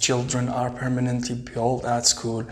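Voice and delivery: slow, careful reading aloud. Shown as a demonstration. Teacher reads the text slowly for pupils. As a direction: read it out word by word. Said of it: "teacher reads sentence slowly".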